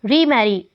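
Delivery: रीमैरी with the prefix री given its own accent; secondary stress on री. Shown as a demonstration. Teacher giving an again-sense example, secondary stress on री in रीमैरी. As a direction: put secondary force on री in रीमैरी. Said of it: "secondary accent री prefix पे".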